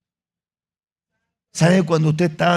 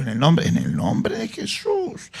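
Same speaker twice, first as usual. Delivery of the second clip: hushed, slow whisper of the holy name; a slow reverent whisper, each word lingered on; 2 semitones lower, slower than usual. Shown as a demonstration. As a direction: breathe "En el nombre de Jesús" with no voice, drawn out. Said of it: "Anótalo, anótalo".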